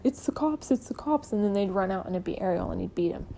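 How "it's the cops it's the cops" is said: mock teasing. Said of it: "Ariel had teased him".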